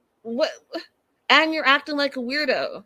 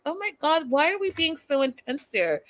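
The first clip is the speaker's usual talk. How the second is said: exasperated; 5 semitones higher than usual. Retold or imitated. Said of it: "I was like".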